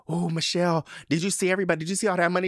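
mock eager asking about money; excited. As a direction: gush at her like a kid. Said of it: "I was like".

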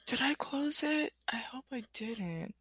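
whispered question to herself. Real, not acted. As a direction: whisper it while searching. Muttering to herself, searching a tab.

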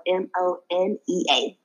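letters said one by one: "M O N E A"; spelling it out. Shown as a demonstration. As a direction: spell out "M O N E A" letter by letter, each letter apart. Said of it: "which is spelled".

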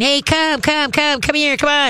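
high sing-song come here to the dog; high coaxing call. Shown as a demonstration. Trainer showing owner how to call the dog, high and coaxing. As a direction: coax the dog in with a bright high voice. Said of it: "squeak the toy again".

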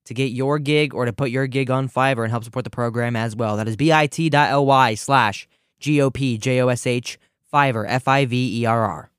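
steady, practised radio ad read; sponsor ad read. Acted. Host plugging a sponsor mid-show, ad read. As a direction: read the sponsor plug straight through.

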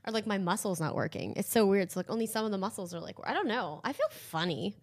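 talking with a numb mouth. Real, not acted. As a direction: lips numb from the dentist. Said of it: "my mouth is so numb".

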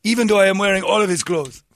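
high, loud caricature voice; mock villager voice. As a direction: play a proud starving villager. Voicing starving villagers.

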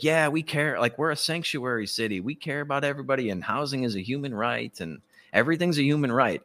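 lightly mocking sing-song recital of slogans. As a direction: parody feel-good talking points in a lilt. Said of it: "like, sing-songy".

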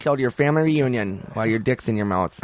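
mock Swedish gunman. Acting a Swedish killer.

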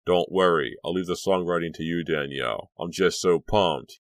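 pumped-up after a show; buzzing with excitement; excited. Acted. Excited bandmate after gig.

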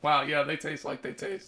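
losing voice, hoarse and strained. Real, not acted. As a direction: say it with a hoarse voice that is giving out. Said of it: "I'm losing my voice".

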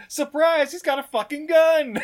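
loud, high comic burst; hammed-up surprise; mock shock reveal. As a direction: blurt the twist loudly, laughing at the end.

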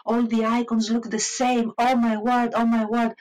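half-hearted dramatic dismay; mock lament. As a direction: playfully groan over having to study icons. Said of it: "as I was lamenting".

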